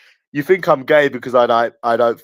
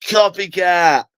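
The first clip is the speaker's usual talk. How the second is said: mock heckle; 4 semitones higher, slower than usual. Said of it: "I'm gonna be like".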